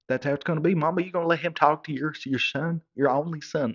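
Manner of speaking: wounded son pushing back at Mama; indignant. Retold or imitated.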